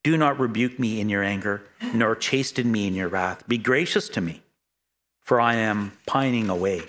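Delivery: pleading psalm reading, building then sinking; a preacher voicing David's anguish; solemn scripture reading. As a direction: read the psalm as a heartfelt lament. Reads a psalm aloud.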